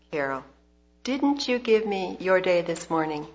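gently repeated question, settling downward; quiet, gentle. Retold or imitated. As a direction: repeat it patiently, letting the pitch fall. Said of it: "he said very quietly and gently".

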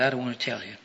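retold reluctance. Daughter answers her father, quietly reluctant. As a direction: lightly act a shamed, reluctant child. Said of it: "She hung her head and said".

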